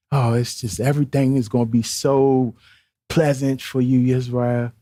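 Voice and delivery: lightly mocking feel-good preacher; Joel Osteen. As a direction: mildly parody a soothing, everything-is-lovely sermon. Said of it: "Joel Osteen".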